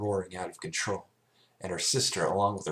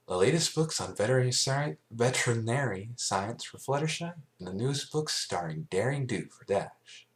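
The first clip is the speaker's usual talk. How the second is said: higher, eager announcing voice; cheerful Twilight; 5 semitones higher than usual. Acted. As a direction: present the books proudly. Twilight presenting books.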